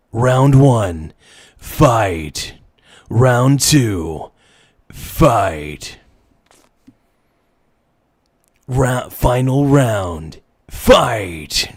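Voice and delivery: drawn-out arena round call; booming fighting game announcer. Pretend.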